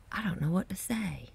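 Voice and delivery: quick, awed whisper; fast whisper. Real, not acted. Vlogger overwhelmed by the sky, whispering fast. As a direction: rush it out under your breath.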